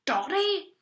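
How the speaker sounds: loud, high exasperated shout; exasperated duke. A narrator's reading. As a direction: bellow in disbelief. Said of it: "he bellowed".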